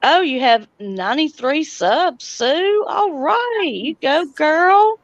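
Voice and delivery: high, bright cheer for a milestone; excited cheer. Real, not acted. Streamer cheering a viewer's ninety-three subs, excited and high. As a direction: hype her up, pitch way up.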